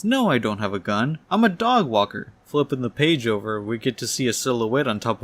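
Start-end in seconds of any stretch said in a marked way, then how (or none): 0.0-2.3 indignant yell, pitch jumping up at the end; lightly raised, protesting voice; mild yell. Acted. Lady answering the police officer, mild yell. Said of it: "And she yells".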